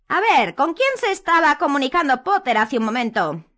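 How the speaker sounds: high, loud questioning; leaning in, probing; Umbridge voice. A narrator's reading. Umbridge questioning Hermione, high.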